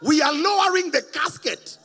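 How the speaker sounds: loud laughing retelling, pitch up; laughing loudly. Real, not acted. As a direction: laugh through the story. Laughing retelling of funeral chaos.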